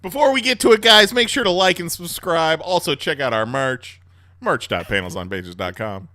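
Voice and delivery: YouTuber plug. Pretend. Mock YouTuber outro plug.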